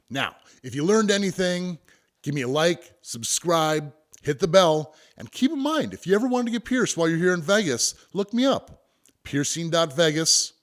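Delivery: high, bright sign-off pitch; excited outro. Real, not acted. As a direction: pump up the call to subscribe. Outro call to subscribe.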